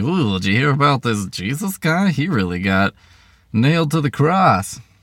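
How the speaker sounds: dim-witted, dumb caveman character voice. Host of a talking show pretending to be a caveman in a joke bit, pretend caveman voice. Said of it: "pretend to be a caveman".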